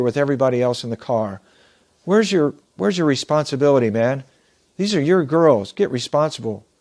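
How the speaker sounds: mild mock-angry telling-off, punching a few words; gruff scolding. Old man scolding a young father on the train, mildly gruff. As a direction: scold him like a fed-up passenger, without shouting. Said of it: "gruff voice and a not very nice one".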